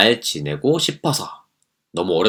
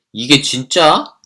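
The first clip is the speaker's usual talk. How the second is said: angry; 5 semitones higher, 5 dB louder, much slower than usual. Acted. Boyfriend angrier.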